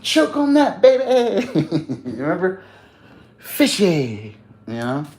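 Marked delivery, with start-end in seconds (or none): 0.0-1.5 high laughing mock-taunt from the movie; Shooter McGavin quote. Streamer quoting Shooter McGavin to chat, high laughing taunt. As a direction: sneer it like the smug golfer, laughing. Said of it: "remember our Shooter McGavin?".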